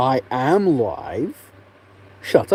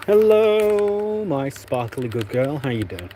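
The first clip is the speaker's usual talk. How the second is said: pet voice; 3 semitones higher, slower than usual. Real, not acted. Greeting pet on stream.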